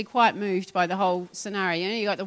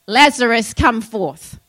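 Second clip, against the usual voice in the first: louder proclamation of "Lazarus, come forth" as God's voice; commanding call; 4 dB louder, slower than usual. Acted. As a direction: call him out of the tomb with authority. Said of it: "God is saying to us".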